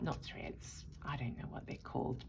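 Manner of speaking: soft unvoiced aside; whispered aside. Real, not acted. Self-correcting aside, unvoiced.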